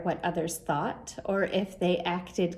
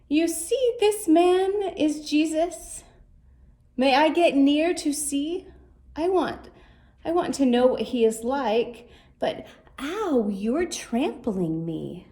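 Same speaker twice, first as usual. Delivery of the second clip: eager little Zacchaeus; 4 semitones higher than usual. Acted. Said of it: "he thought he'd stay".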